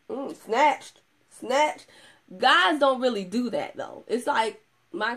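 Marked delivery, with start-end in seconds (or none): 0.1-1.0 mock hype. Women hyping each other. 1.3-1.9 mock hype, louder. Repeat of the hype.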